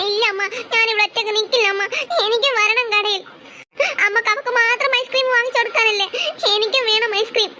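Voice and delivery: tearful, whining protest; crying child. Acted. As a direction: play-act sobs between the phrases. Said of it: "നീ ഇങ്ങനെ കരയണത്". (കരഞ്ഞുകൊണ്ട് വാശിപിടിക്കുന്ന കുട്ടി)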